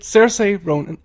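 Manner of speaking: "Cersei Ronan" with Cersei said SER-say; name pronunciation demo. Shown as a demonstration. Co-host modelling the actress's name, pronouncing "Cersei" as SER-say. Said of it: "udtale det".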